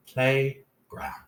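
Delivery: "Playground" as two beats, "play", "ground"; syllable by syllable. Shown as a demonstration. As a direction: say "Playground" with a gap between syllables. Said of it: "put the syllables back together".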